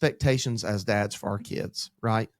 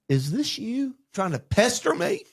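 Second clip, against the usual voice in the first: exasperated; 11 semitones higher than usual. Retold or imitated. Exasperated dad asking God.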